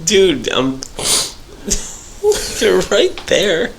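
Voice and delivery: drowsy, half-asleep words; nodding off. Real, not acted. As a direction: talk like you're dozing off. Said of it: "is this, like, narcoleptic Nolan talking now?".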